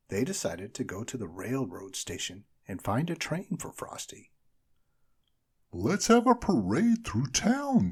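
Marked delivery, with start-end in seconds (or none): 5.7-7.9 high, loud, slow snowman shout; rally everyone for a parade. A narrator's reading. Frosty shouting to the children. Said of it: "shouted Frosty".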